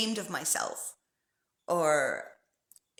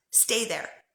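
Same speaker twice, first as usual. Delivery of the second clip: whispered; 3 semitones higher than usual. Shown as a demonstration. Gentle instruction.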